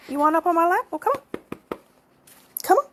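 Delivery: high, loud sing-song call to a cat; coaxing pet talk. Real, not acted. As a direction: coax the kitty up with a bright high voice. Coaxing cat onto lap.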